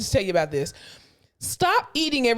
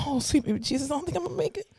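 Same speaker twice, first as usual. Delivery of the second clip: faint strained groan; 4 semitones higher, 6 dB quieter, much faster than usual. Retold or imitated. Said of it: "you're just like".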